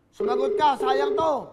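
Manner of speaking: loud pleading shout to answer; urging shout. Real, not acted. Host shouts at the silent caller to answer, urgent. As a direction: call out, begging her to pick up.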